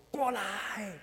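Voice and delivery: a hushed, firm summons; commanding whisper. Retold or imitated. Preacher imitates a possessive woman, commanding in a whisper. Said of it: "一定说".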